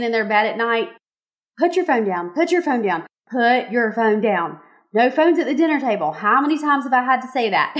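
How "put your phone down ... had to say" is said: put-on firm mom scolding teens at dinner. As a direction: repeat it like a nagging mom. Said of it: "Did y'all hear my mom voice there?".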